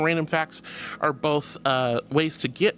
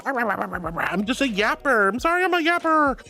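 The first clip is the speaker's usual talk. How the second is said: slow, higher whiny apology; mock self-apology; 6 semitones higher than usual. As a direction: lightly whine it, slowly. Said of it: "I know I go".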